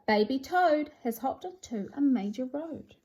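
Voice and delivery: lively storybook read-aloud with sing-song rhymes; animated picture-book narration; reading to children. A narrator's reading. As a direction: read it like bedtime with a small child.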